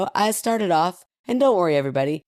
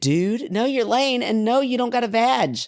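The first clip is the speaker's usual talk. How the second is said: higher-pitched comic telling-off; mock scolding; 6 semitones higher than usual. Wife tells husband to stay out of it, mock scolding. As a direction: put him in his place, playfully exasperated.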